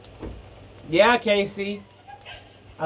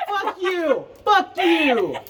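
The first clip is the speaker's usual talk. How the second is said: loud, higher playful yells; playful yelled insult; yelling back; 14 semitones higher, 5 dB louder, much slower than usual. Real, not acted. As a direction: fire it back half laughing.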